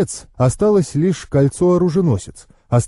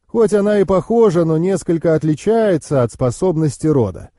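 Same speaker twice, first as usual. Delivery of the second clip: higher-pitched knowing uncle; explaining uncle; 5 semitones higher than usual. Acted.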